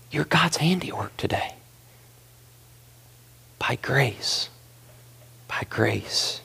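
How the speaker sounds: hushed whisper, breath only. Real, not acted. Pastor whispering grace to the congregation, hushed. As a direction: lean in and breathe the words.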